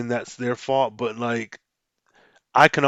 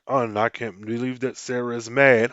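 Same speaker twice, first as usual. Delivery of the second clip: imitating a narrator with no emotion; mock unexpressive audiobook read; emotionless script reading. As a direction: read it like it's straight from the script. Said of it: "do you not have any emotion".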